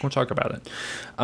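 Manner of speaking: hushed mock-conspiratorial repeat; whispered echo. Real, not acted. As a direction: whisper it back like a secret. Echoing the promise jokingly.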